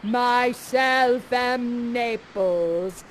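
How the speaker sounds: very slow, grand self-introduction; Ferdinand, pompous. Acted. Ferdinand introducing himself to Miranda, grandly. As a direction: announce yourself like royalty. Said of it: "he introduces himself".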